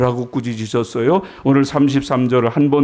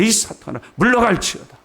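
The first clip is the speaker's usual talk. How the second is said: stern, higher-pitched banishing command; harsh rebuke; 7 semitones higher than usual. Retold or imitated. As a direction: imitate casting out Satan with a severe rebuke. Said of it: "가장 험한 책망이에요". (높은 소리로 엄하게 꾸짖듯)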